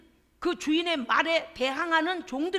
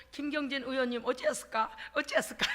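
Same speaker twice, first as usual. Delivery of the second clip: mimicked drawl; 3 semitones lower than usual. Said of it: "이분이 말투가 원래 이렇구나".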